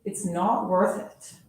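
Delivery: lively storybook read-aloud; animated picture-book reading voice; reading to children. Acted. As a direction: read it like story time for kids.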